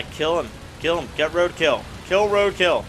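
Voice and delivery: loud excited urging; hyped up. Real, not acted. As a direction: pump yourself up mid-fight. Urging self on in fight.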